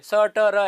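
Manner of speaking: स, ट, र each as a short separate sound with a schwa; separate consonant sounds. Shown as a demonstration. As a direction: sound out स, ट, र one by one. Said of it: "ऐसे, तो इस चीज को". (स, ट, र अलग-अलग ध्वनियों में)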